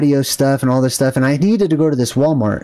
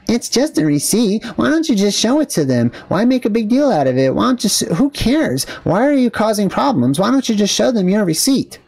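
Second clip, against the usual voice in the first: higher-pitched mocking objection; mock exasperation; 5 semitones higher than usual. Vlogger imitating people who support receipt checks, mock exasperation. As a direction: imitate naggy people who see no problem. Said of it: "and they say".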